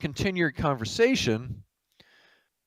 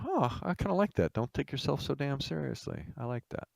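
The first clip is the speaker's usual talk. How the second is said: soft, pensive echo to oneself; musing approval; 8 dB quieter than usual. Acted. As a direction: mull it over quietly, pleasantly struck. Guest muses over the rule.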